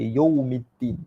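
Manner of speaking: "yaumiddin" said as yomiddin; common misreading. Shown as a demonstration. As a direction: round the first vowel of "yaumiddin" to o. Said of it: "ada orang baca yaumiddin".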